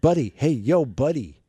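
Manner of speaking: put-on loud, with a slight New York accent. Voicing a fox character: slight New York accent. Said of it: "the fox would have a slight New York accent".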